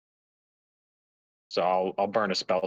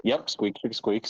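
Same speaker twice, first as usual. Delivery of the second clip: squeaky toy squeaks in rhythm; squirrel squeaks; slower than usual. Pretend. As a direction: talk like a squeaky rubber toy. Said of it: "So I'm squeaking at 'em too".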